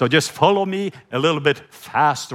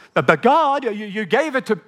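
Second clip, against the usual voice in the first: stammering protest; 5 semitones higher than usual. Retold or imitated. Pleading protest to God.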